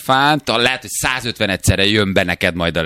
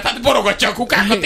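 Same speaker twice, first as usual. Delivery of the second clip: high-pitched, talking through laughter; laughing mockery; 11 semitones higher than usual. Host jokes about an elephant knocking bins over, laughing mockery. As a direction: crack up while picturing the clumsy beast.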